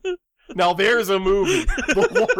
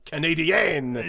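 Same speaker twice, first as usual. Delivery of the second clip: put-on drawn-out Quebecois accent; mock Canadian French; 2 semitones lower, much slower than usual. Host imitating the kid's accent, mock Quebecois French. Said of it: "he was all very, very, like".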